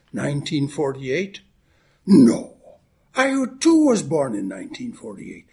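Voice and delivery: a light Irish brogue held through the greeting and the joke; Irish accent. Acted. Minister greeting the congregation on Saint Patrick's Day, in a light Irish accent. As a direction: lilt it like an Irish great-granddad. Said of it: "now I'll drop the accent".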